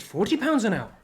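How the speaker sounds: put-on excited child. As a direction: voice jumps up in retold excitement. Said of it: "So he got excited".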